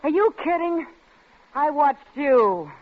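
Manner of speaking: scornful, rising to a loud accusation; angry. Acted. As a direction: hurl it back at him slowly. Drunk couple quarrel.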